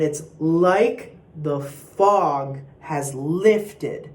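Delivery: "like", "fog" and the "lift" of "lifted" punched; slow, spaced phrase leaning on "like", "fog", "lifted"; accents on like, fog, lifted. Shown as a demonstration. Choir coach showing sopranos the accents, stress on like, fog, lifted. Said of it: "write the accent on like".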